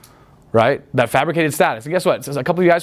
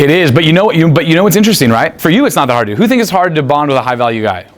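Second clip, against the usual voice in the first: louder; 6 dB louder than usual. Real, not acted. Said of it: "addresses the room".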